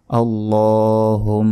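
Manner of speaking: আল্লাহুম slow, with the m held nasally; nasal ghunna. Shown as a demonstration. Teacher showing ghunna on আল্লাহুম. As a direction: hum the m of আল্লাহুম. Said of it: "এখানে গুণনা হবে".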